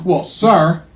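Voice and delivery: low-pitched mock salesman pitch; formal sales patter, dropped low; mattress salesman. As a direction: imitate an over-polite salesman. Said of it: "The salesman says to me".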